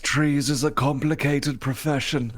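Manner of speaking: put-on light jokey German accent; mock German accent. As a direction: slip into a playful German accent. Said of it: "talking like that".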